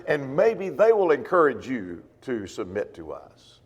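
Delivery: ordinary delivery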